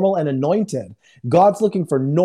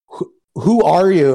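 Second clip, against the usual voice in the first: slow, louder, halting imitation of a man overcome; retold tearful question; 6 dB louder, slower than usual. Stranger asking who prayed over his grandson, mock-tearful. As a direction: stammer it out as if breaking down. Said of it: "he just breaks and starts crying".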